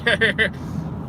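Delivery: a quick, high burst of laughter; short laugh. Real, not acted. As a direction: laugh at yourself. Laughing at own accent.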